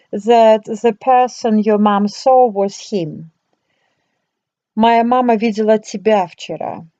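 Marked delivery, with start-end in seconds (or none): 4.7-6.9 тебя given the stress, quick delivery. Shown as a demonstration. Teacher demonstrating intonation that stresses тебя. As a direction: underline тебя so the person is clear. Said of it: "Changing your intonation, you also can underline".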